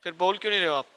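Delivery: sore throat, rough and strained; hoarse voice. Real, not acted. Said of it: "मेरा गला खराब है".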